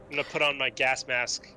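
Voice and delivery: ordinary talk, nothing marked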